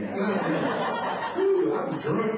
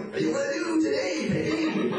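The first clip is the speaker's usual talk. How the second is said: high cartoon voice, raised pitch; Pinky and the Brain voice; 10 semitones higher than usual. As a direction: play a cartoon mouse plotting. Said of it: "I think they're gonna say something like".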